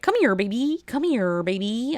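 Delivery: Kermit voice. Retold or imitated. Ordering at McDonald's in a mild Kermit voice. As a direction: coo like Kermit over your food. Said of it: "I was just doing the Kermit voice".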